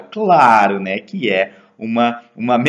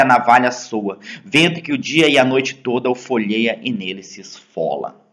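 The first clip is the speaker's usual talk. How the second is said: measured, careful poem recital; poem reading. Acted. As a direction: read each line of the poem with weight. Reads the poem aloud.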